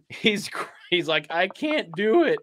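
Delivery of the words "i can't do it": mock whimpering, higher and slow; half-hearted imitation of a drunk man crying; imitated sobbing. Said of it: "And he's sobbing".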